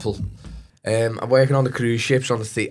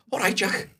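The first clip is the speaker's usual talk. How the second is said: taken aback; 11 semitones higher than usual. Retold or imitated. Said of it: "he was like".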